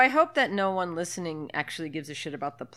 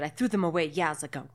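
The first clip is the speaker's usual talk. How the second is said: light put-on Cockney British; mock British accent; 2 semitones lower, faster than usual. Agent answering about cyanide pills, mock British accent. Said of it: "a sort of British accent".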